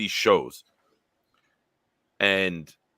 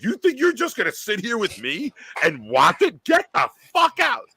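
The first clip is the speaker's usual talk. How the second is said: mock shouting girlfriend; 13 semitones higher than usual. Girlfriend throwing him out before the finale, high mock shout. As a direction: yell at him to get out. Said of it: "she's like".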